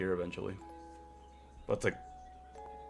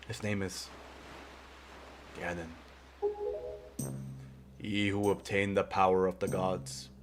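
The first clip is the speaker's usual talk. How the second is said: put-on wise old man voice. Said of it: "a more wise old man voice".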